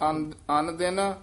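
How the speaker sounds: ਅਨ and ਦਿਨ said apart with a small break; split ਅਨ ਦਿਨ. Shown as a demonstration. Teacher correcting the reciter, ਅਨ ਦਿਨ split apart. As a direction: separate ਅਨ from ਦਿਨ. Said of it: "ਅਨ ਤੇ ਦਿਨ ਦੇ ਵਿੱਚ dash ਦੇ ਕੇ".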